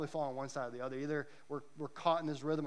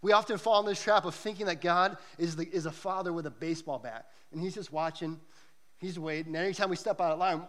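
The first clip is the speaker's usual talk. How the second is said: ordinary talk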